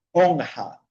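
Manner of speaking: "honja" with a nasal N then Spanish jota. Shown as a demonstration. Teacher showing R after a consonant, J-sound demo. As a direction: say "honja" in two syllables, second starting on throaty J. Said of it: "se hace sonido de J en español".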